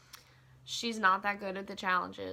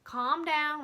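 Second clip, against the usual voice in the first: higher, pushy coaxing voice; mock-coach her through it, pitched up; Pauly talking Cara down, in a high mock-soothing voice; imitating Pauly; 9 semitones higher, 4 dB louder than usual. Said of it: "And Pauly was like".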